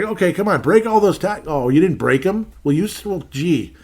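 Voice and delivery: high, loud mock pep talk, sarcastic throughout; mock-cheerful sideline coach; sarcastic coaching quote. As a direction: cheer the team on while mocking them. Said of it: "And it's like".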